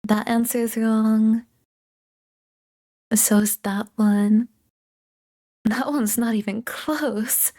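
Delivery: slow, deliberate verdicts; slow judgment. Acted. Tutor marking the answers, slow and deliberate. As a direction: drag out each verdict.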